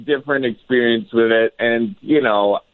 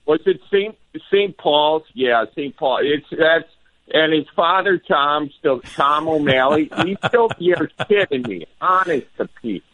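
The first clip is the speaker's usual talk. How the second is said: high, chatty Wisconsin local; hammed-up Wisconsin neighbor catching up; Wisconsin accent; 6 semitones higher than usual. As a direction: reminisce in a lifted Wisconsin small-town voice. Acting out locals recalling church, priest.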